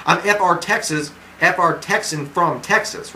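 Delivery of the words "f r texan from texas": "F R Texan" said slowly, each part spelled out; slow down and correct "Texan" carefully; slow careful correction. Shown as a demonstration. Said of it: "wait, F R Texas from Texas".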